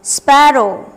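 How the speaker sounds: loud, slow word-by-word reading; classroom drill. Shown as a demonstration. Teacher drilling plurals for pupils, loud and clear. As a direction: drill each singular and plural form for the class. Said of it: "Let's fill the table".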